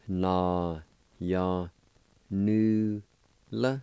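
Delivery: Na ya nu la broken into separate syllables, nu lifted; careful syllable-by-syllable pronunciation. Shown as a demonstration. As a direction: say each syllable of Na ya nu la apart. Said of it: "It's pronounced like this".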